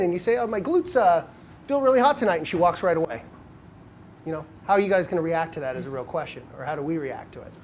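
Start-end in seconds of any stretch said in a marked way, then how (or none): 0.4-2.4 raised pitch, hammed-up vanity; mock smug brag. Guy bragging to a girl in a hammed-up smug way. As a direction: show off ridiculously on purpose. Acted silly banter line.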